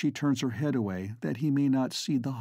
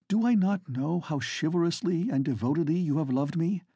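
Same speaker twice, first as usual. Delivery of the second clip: earnest lady, higher; 4 semitones higher than usual. Acted. Flora gently refuses Estcourt.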